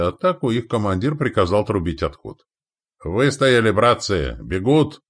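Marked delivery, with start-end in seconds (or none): 3.0-5.0 raised, high victory calls; shouts along the lines. Acted. Soldiers seeing the enemy flee, triumphant shouts. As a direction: call it out to your comrades. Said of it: "Неслось по линиям русских сотен".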